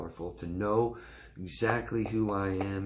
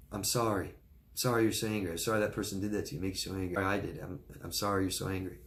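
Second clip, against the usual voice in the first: soothing apology demo; faster than usual. Shown as a demonstration. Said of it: "I can't think of three words that work better".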